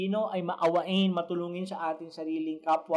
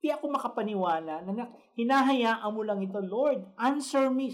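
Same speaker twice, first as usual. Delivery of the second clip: pleading prophet; 4 semitones higher than usual. Retold or imitated. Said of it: "Kaya nga sabi niya ganun".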